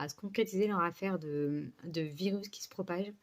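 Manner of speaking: slushy lisp on the s sounds. Real, not acted. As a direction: say "concrétiser" and "se propage" with a lisp. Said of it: "j'ai un cheveu sur la langue".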